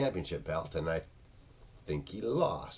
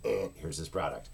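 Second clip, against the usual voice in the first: bored indifferent. Shown as a demonstration. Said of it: "a lot of mine are, are basically just".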